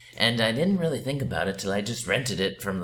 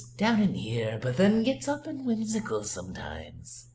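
Joker voice; 4 semitones higher than usual. Acted. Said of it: "my version of the Joker".

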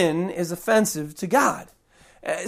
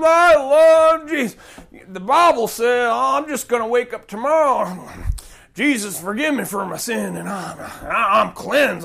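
mock drunk believer.

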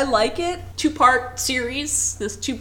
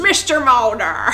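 bad Jimmy Stewart; 4 dB louder, slower than usual. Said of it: "now I sound like Jimmy Stewart".

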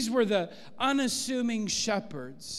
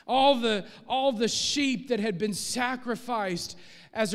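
full-force preaching. Acted. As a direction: build the sermon to its peak. Preaching climax on the Lamb.

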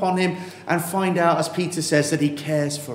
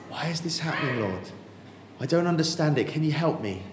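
softer, searching question to God; quiet humble plea; 6 dB quieter than usual. Acted. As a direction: ask gently, almost in prayer.

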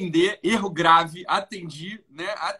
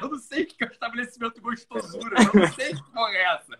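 exasperated, laughing through it; laughing exasperation; 5 semitones higher than usual. Retold or imitated. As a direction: protest while cracking up. Outraged reply dissolving into laughter.

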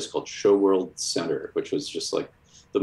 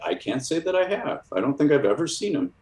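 doorman answering; 9 semitones higher than usual. Retold or imitated. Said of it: "And he's like".

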